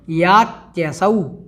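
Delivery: यात्यसौ said very slowly as yaatyasau; careful यात्यसौ; slow model word. Shown as a demonstration. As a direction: draw out यात्यसौ. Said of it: "breaking words apart".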